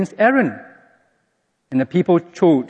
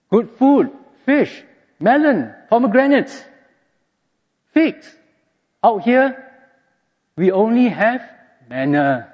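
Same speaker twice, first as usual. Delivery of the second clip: wistful grumbling; 7 semitones higher than usual. Retold or imitated. Retelling what parents told.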